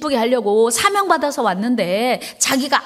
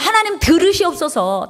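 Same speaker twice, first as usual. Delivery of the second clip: prayerful plea; 6 semitones higher than usual. Shown as a demonstration. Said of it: "다 같이".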